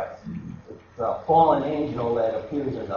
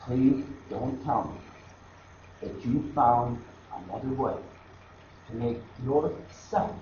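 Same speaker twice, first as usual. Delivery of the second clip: pleading Jesus. Pretend. Jesus on the cross begging the listener, mild pleading cry. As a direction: beg like a wounded savior, rising and falling. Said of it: "crying out from the cross".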